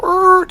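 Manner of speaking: a sudden squeaky jolt of a sound; sharp high "er" to stop yourself. Shown as a demonstration. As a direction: yelp to snap your brain out of it. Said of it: "So go".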